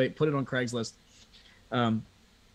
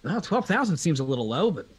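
mock phone caller; 10 semitones higher than usual. High eager caller ringing Joe about the Accord. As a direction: ham up a keen buyer ringing about the Accord.

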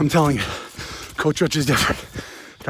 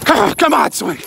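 excited urging; 4 semitones higher than usual. Real, not acted. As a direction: push it, come on. Urging the swing on.

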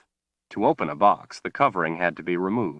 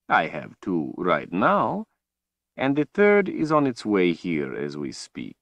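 slow, silky villain voice; a cold, gloating overlord; menacing villain; 3 semitones higher than usual. Acted. Villain Rahl speaks.

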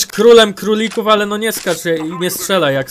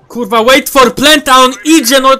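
exasperated; 5 semitones higher, 6 dB louder than usual. Real, not acted. Gamer to teammate who runs ahead, exasperated. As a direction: push the call out in frustration. Repeats ignored call, exasperated.

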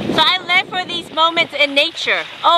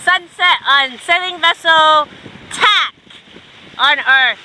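presenting; 3 semitones higher, 4 dB louder, slower than usual. Acted. Second take of the intro.

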